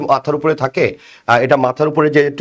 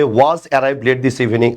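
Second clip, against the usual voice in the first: slow reading; much slower than usual. Shown as a demonstration. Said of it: "এবার বলা হচ্ছে".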